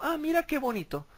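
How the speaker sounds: high, mock-naive ah; sarcastic mock wonder; mock surprised son. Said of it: "dice el Hijo".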